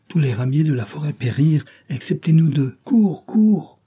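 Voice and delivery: high, urgent pigeon voices; cooing birds urging her to run; wood pigeons. Acted.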